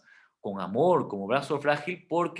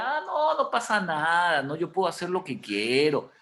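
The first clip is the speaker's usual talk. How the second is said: careless shrug-off; 3 semitones higher than usual. Retold or imitated. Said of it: "mock careless believer".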